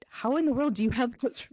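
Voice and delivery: put-on a kid baffled by mom, half laughing; incredulous kid. Cohost voicing kids questioning percentages, incredulous.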